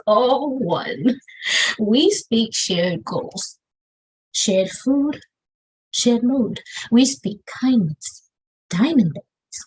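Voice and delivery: measured, rhythmic poetry recitation with pauses; spoken word poem. Acted. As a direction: perform each line as a slow, deliberate slam verse.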